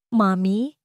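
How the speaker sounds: put-on small drowsy child's voice, rising; a half-awake little boy asking; lightly voiced sleepy child. A narrator's reading. Sleepy child wakes, asks.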